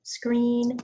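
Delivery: hoarse from being sick; rough, worn-out voice; raspy sick voice. Real, not acted. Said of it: "in my raspy, sick voice".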